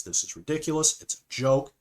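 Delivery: mock outrage, kept fairly contained; imitated freak-out. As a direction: act out a diva starting to fume. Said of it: "he starts freaking out".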